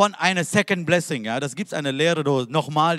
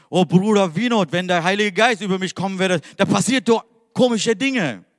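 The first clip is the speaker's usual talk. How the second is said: put-on anxious young man; 5 semitones higher, 5 dB louder than usual. Young man's fearful quote.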